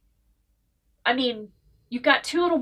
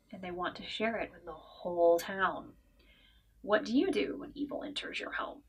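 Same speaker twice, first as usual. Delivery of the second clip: quiet, ominous book-blurb read that sinks to a near whisper; dramatic blurb reading; 4 dB quieter than usual. Acted. Reviewer reading the back cover to viewers, spooky and hushed. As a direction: read it like a horror trailer, fading into a hush.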